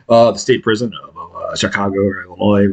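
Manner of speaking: low, flat official phone voice; prison operator voice. Retold or imitated. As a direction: drop the voice low like a bored operator.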